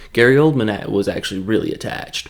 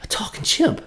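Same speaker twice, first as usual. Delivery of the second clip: much higher, eager mock pitch to a chimp; Mark Wahlberg impression; 10 semitones higher than usual. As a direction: pitch the ape a movie deal in a goofy high voice. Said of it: "and he's like".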